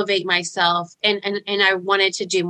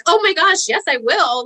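retold shaky excitement; 7 semitones higher than usual. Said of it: "like, shaking".

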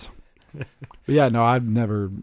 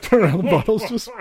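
mock exclaim; 10 semitones higher, 5 dB louder than usual. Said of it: "I'm like".

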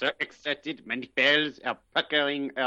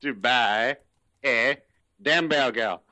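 slow, strained hamburger in a bad French accent; "a hamburger" dragged out in a hammed-up French accent; mock French Clouseau accent; slower than usual. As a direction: struggle through hamburger like Clouseau. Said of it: "when he's trying to say hamburger".

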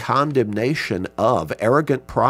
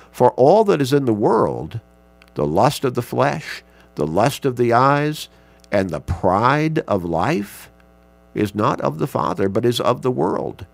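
scripture reading; 3 dB louder than usual. Acted. Reads First John passage loudly.

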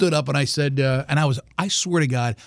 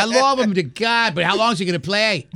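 Boston accent; 3 semitones higher than usual. Shown as a demonstration. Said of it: "You know, that kind of".

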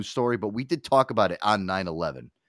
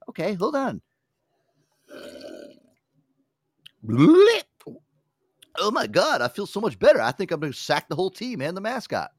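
much higher and louder, hammed-up rush of energy; mock revived athlete; 10 semitones higher, 5 dB louder than usual. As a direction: burst back to life like a cartoon. Athlete revitalized after sip.

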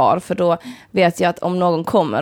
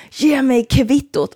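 slow, raised, drawn-out demand; aggressive demand; 5 semitones higher, much slower than usual. Retold or imitated. Man pulls her across the bar counter, menacing. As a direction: imitate a customer bullying staff, word by word. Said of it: "Han står kvar och skriker på mig".

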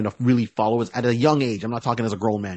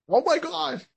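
very high mock shriek of shock; family seeing the demon revealed; shocked gasp. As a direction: squeal it in horror. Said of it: "they're like".

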